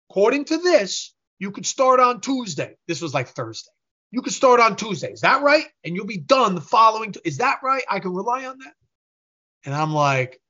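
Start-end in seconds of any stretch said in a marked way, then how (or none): 0.1-8.7 high-pitched imitated interrogation; pressing, worked-up mock questioning; retold pointed grilling. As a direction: imitate an upset client demanding confirmation. Angry client grilling him on dates.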